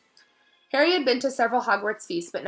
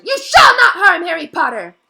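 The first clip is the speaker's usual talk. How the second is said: much higher, much louder elf cry; elf shouting; 10 semitones higher, 15 dB louder than usual. A narrator's reading. Dobby shouts to stop Malfoy harming Harry. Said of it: "Dobby shouted".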